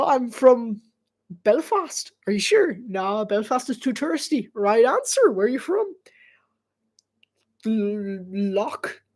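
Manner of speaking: imitated Irish accent. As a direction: mimic a chatty Irish accent. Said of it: "This is actually how they talk".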